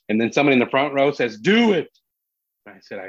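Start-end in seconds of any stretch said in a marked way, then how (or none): 1.4-1.9 raised, louder heckler's urging; heckler's call. Retold or imitated. Front-row audience member urging the comic on, heckling call. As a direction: call it out from the crowd, high and loud.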